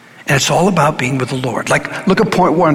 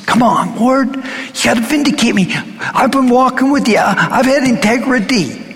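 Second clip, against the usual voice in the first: pleading psalmist; 8 semitones higher than usual. Acted. Voicing David pleading with God.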